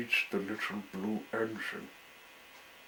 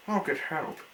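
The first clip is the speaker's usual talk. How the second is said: calling out; 7 semitones higher than usual. A narrator's reading. Engine calls to friend.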